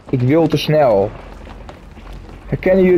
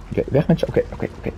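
whispering; 7 dB quieter, much faster than usual. Real, not acted. Whispered frustrated muttering.

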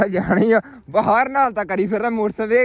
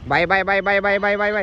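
louder, rhythmic calls to a hawk; loud bird call; 5 dB louder than usual. Real, not acted. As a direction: call the bird out across the field. Second man calls the hawk.

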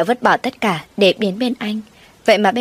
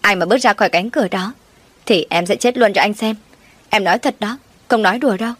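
slightly raised, rising toward the end; a half-voiced desperate yell; understated cry of threat at the door; mild shout; 3 semitones higher than usual. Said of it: "Ngọc gào to lên".

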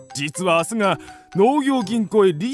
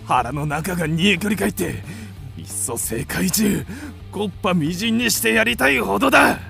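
seething anger. Acted. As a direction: start contained and swell with fury. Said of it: "腹が立ってならん".

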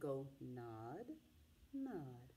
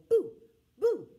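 a big, much higher and louder boo; jump-scare the listener with the boo; spooky shout; 14 semitones higher, 16 dB louder than usual. Acted. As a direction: belt out a ghostly boo. Pumpkin head shouts boo.

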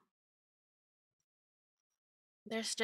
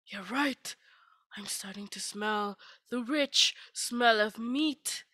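slow, hushed whisper; awed whisper. Acted. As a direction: breathe it in wonder, slowly. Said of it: "he said".

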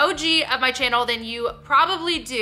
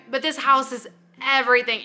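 ordinary talk

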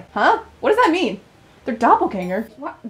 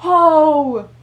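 startled oh; 7 dB louder than usual. Real, not acted. Jump scare while playing.

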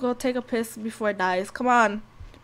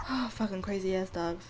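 whispered grumble; 6 semitones lower, 9 dB quieter than usual. Real, not acted. Tired of the dogs.

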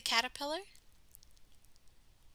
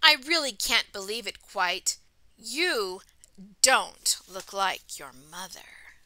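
louder, lilting storybook reading; story read-aloud; 4 semitones lower, 11 dB louder, slower than usual. A narrator's reading. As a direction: read it out to children, slowing for the refrain. Reading picture book aloud to children.

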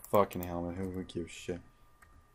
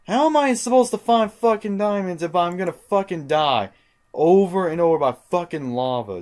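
higher, louder exasperated complaint; frustrated rant; 9 semitones higher, 7 dB louder than usual. Real, not acted. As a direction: vent loudly at the unfair game. Ranting after dying again.

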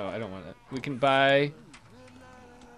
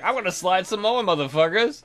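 mock excited yell; 5 semitones higher, 5 dB louder than usual. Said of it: "She's just like".

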